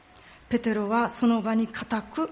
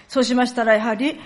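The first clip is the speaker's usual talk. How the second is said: ordinary delivery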